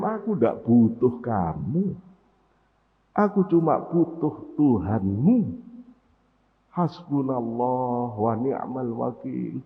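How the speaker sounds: slow, steady and assured; calm Ibrahim. Acted. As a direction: answer with total calm trust. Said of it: "Ibrahim dengan tenangnya".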